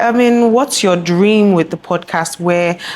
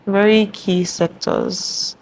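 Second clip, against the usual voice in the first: measured, announcer-style delivery; newscaster voice; 2 semitones higher than usual. Real, not acted. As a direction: read it like a news anchor. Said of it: "You sound like a newscaster".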